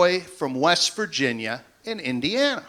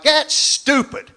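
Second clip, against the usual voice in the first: higher, slow that's stupid; unimpressed wife; 9 semitones higher, slower than usual. Retold or imitated. Wife unimpressed by the clown bit, higher and slow. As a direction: drag it out like a bored wife. Wife dismissing his joke.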